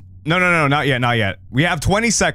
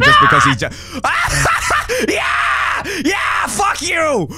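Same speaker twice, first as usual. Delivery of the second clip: gloating cheer; 8 semitones higher, much slower than usual. Real, not acted. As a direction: crow over him. Gloating over friend's death.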